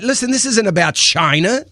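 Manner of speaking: ordinary delivery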